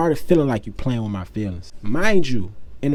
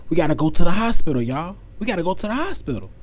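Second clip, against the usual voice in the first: higher, quick urgent plea; acted urgency; 5 semitones higher, 4 dB louder than usual. Son urging everyone to the hospital, urgent. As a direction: rush it out as if raising the alarm. Teller acts his panicked first thought.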